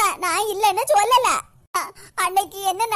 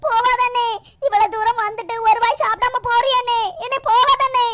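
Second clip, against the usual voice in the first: tearful pleading. Acted. Sister begs brother not to leave.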